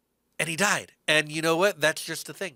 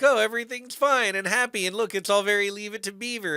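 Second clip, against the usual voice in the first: mock cheerful; 5 semitones higher, 4 dB louder than usual. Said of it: "you're like".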